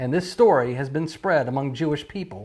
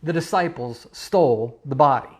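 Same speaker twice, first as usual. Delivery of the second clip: mock command. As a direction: parody the great commission. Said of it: "It's go and tell".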